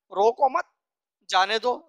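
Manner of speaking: loud rising روکو مت, break, then جانے دو; permission: "روکو مت" as one phrase, "جانے دو" apart; pause after مت. Shown as a demonstration. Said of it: "یعنی اس کو اجازت دی جا رہی ہے".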